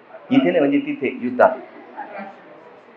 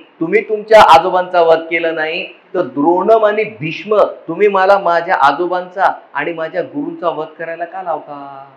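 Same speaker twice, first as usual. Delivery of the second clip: angry Arjuna. Acted. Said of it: "Arjun एकदम चिडला भगवंतावर".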